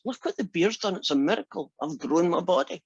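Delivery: mildly thrilled head, voice lifting up; excited. Acted. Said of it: "And he's dead excited".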